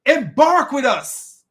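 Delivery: loud, high, slow mock British call; British accent. Noah calling his son aboard, mock British accent. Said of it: "That sounds like a British man talking".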